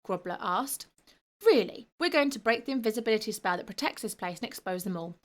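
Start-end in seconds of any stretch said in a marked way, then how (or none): 1.5-5.2 sneering. Acted. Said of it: "the boy sneered".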